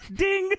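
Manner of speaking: mimicked ding; lie detector ding. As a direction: imitate the machine going off. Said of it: "a lie detector test go".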